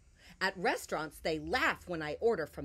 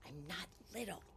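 soft refrain; 10 dB quieter, much faster than usual. A narrator's reading. Opening refrain read softly.

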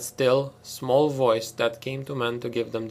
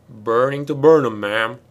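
loud, eager soldier shout; eager crisp military voice; 9 dB louder than usual. Acted. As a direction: bark it out keen to fight. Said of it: "interrupted enthusiastically in a crisp military voice".

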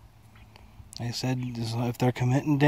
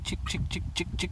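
calling chickens; 7 semitones higher, 6 dB quieter than usual. Real, not acted.

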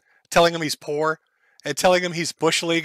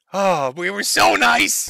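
slow mock whine; mocking echo; 4 semitones higher, 3 dB louder, slower than usual. Commentator parroting the drunk streamer, mock whine. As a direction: parrot him in a whiny mock voice.

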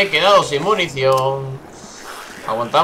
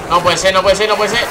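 louder, higher, mounting disbelief; can't believe what's happening; rising disbelief; 5 semitones higher, 4 dB louder than usual. Real, not acted. Game bugs, player panics.

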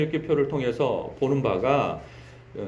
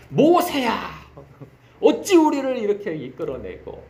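indignant cry. Retold or imitated. Israelites blaming Moses.

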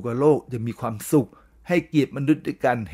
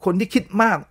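คนที่คิดมาก pitched high to set it apart; stressed phrase; 7 semitones higher, 3 dB louder, faster than usual. Shown as a demonstration. Teacher to listeners, raising คนที่คิดมาก high. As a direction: lift คนที่คิดมาก high for contrast. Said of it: "คิดในสิ่งที่ควรคิด".

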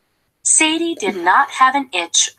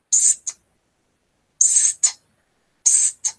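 whispered psst; slower than usual. A narrator's reading. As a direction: hiss it like a secret. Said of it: "Pig whispered something to Cow".

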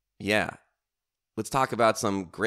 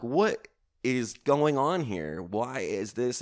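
baffled; 5 semitones higher, slower than usual. Retold or imitated. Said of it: "And I'm like".

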